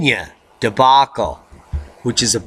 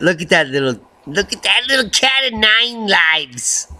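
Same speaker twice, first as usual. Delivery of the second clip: cooing pet talk; 5 semitones higher than usual. Acted. Cooing at the cat again.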